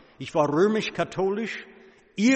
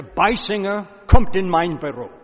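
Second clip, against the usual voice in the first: loudspeaker call; 3 semitones higher, 6 dB louder than usual. Retold or imitated. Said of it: "rief laut über der Lautsprecher".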